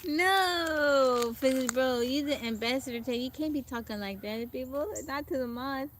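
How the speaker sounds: loud, high mock telling-off; mock scolding. Teasing viewer Fizzy Bro for cursing at mods, loud mock scolding. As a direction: play at scolding a cheeky friend.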